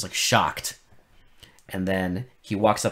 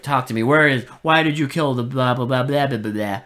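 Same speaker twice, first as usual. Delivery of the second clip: louder mock interrogation tailing into blah-blah; mimicked demand; 5 dB louder than usual. Host mimicking the hero grilling a tied-up man, mock demand. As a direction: rattle off a mock-angry grilling. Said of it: "he's just like".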